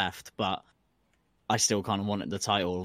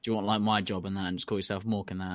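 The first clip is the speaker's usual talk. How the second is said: emperor impression; 4 semitones lower, 4 dB quieter than usual. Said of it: "the Emperor Mork was like".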